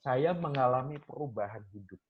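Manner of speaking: spoken slowly. Retold or imitated. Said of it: "sambil dia ngomong dengan perlahan".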